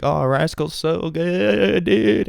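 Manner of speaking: high, drawn-out fanboy gush; mock gushing. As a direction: stretch it out in climbing adoration. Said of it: "when we were like, all like".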